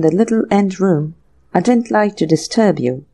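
bow and explain like a polite butler; deferential butler. Acted. Butler Rogers answers meekly.

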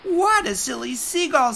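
high teasing bird voice; mocking sandpiper. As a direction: poke fun at the silly seagull.

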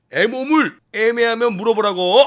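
hammed-up officer shouting a slogan; exasperated shouted explanation. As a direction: drill it into a slow soldier. Commander shouts the slogan's meaning.

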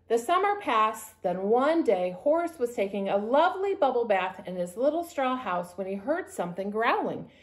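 lively, measured story narration; storybook reading. A narrator's reading. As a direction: read a picture book to children. Reads story to children.

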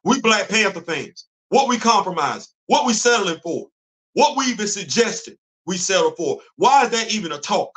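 indignant rhetorical questions, each one punched; worked up, blood boiling. Real, not acted. Host challenging fellow Black Panther fans over settling, worked up. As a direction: fire off exasperated challenges in separate bursts. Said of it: "Now you got my blood boiling".

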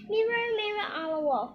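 high, loud call to the magic mirror; queen's incantation. Acted. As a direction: invoke the mirror, falling away towards the end. Queen invoking her magic mirror.

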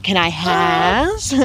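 slow, babyish goose voice, only a little put on; jokey goose voice. Husband joking in the goose's voice, slow and babyish. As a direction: drag it out like a begging goose. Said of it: "he always kinda jokes around and he'll say".

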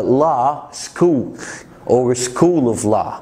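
slow, careful law school; نطق law school ببطء ووضوح; careful English. Shown as a demonstration. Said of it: "لو عاوز مثلًا يقول كلية حقوق". (نطق إنجليزي بطيء وواضح)

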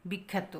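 বিখ্যাত said softly as 'bik-khæ-to'; soft model of বিখ্যাত with 'a' as in 'cat'; æ-like vowel. Shown as a demonstration. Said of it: "উচ্চারণ কি হবে?".

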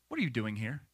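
soft, low voice of God; hushed, low divine question; still small voice. Retold or imitated. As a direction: say it gently and very quietly. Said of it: "voice of God comes as a still small voice".

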